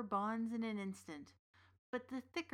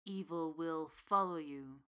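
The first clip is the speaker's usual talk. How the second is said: ominous witch; 4 semitones lower than usual. Acted. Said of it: "she promised".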